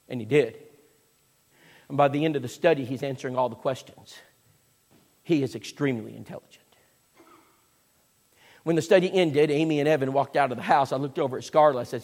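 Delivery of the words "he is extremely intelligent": breathy hushed whisper; whispered aside. Real, not acted. Preacher whispering a compliment to the congregation. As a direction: lean in and whisper the praise.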